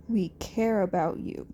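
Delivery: low, steady mentor voice; gruff reassurance. Acted. Aizawa calmly telling Izuku he should come. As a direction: reassure him without fuss.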